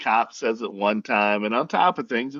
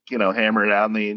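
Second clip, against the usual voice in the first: normal talking voice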